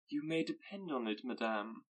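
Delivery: frosty politeness to the mother; cold civility. Acted. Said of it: "with cold civility".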